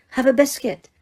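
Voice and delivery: impatient. A narrator's reading. Teacher repeating her offer to a confused student, impatient. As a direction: repeat it, losing patience. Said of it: "she repeated impatiently".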